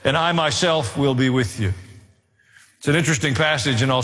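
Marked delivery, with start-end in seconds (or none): 0.0-1.7 raised, declaiming voice for God's charge; a lightly lofty reading of the Lord's words; scripture reading. Acted. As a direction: proclaim it like a commission. Reads God's command to Joshua.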